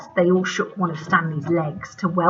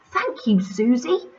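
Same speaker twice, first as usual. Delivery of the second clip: smiling; 5 semitones higher than usual. Acted. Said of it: "said Sydney, smiling".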